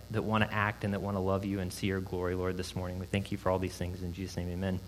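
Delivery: low, subdued praying voice; opening prayer. Real, not acted. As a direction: pray softly and earnestly for the room.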